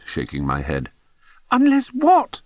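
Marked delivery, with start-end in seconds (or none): 1.5-2.4 high, loud squeak of a question; squeaky. A narrator's reading. Bunce squeaks at the narrator, begging to know, high and loud. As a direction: squeak it out, much higher and louder. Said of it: "squeaked Bunce again".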